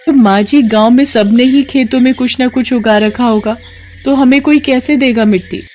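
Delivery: put-on a worried young wife pleading with her mother-in-law; worried young bahu. Mala worried question. (चिंतित बहू की आवाज़)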